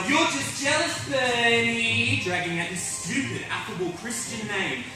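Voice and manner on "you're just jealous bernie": higher, taunting yell. Acted. Son accuses his father of jealousy, moderate yell. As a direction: throw the accusation at Dad, pitch raised. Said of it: "And then I yell".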